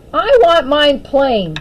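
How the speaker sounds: slow, firm insistence; insisting. Acted. Daphne refusing dandelion sauce at supper, slow insistence. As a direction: dig in, slowly. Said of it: "Daphne insisted".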